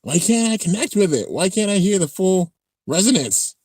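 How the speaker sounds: high-pitched acted frustration; frustrated. Character struggling to connect with it, acted frustration.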